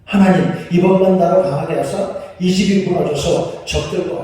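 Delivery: loud desperate plea; fervent prayer. Acted. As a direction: cry out to God for strength. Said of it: "마지막으로 기도하죠".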